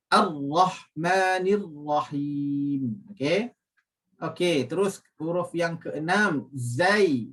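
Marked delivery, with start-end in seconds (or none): 0.1-3.0 Ar-Rahmanir Rahim slow with heavy tafkhim ra; thick ra. Shown as a demonstration. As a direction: recite slowly, ra thick. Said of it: "dibaca dengan tebal atau dibaca dengan tafkhim". (ra dibaca tebal dengan tafkhim)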